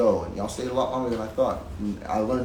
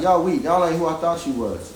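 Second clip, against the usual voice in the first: angry; 5 semitones higher, 3 dB louder than usual. Retold or imitated. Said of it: "I'm like".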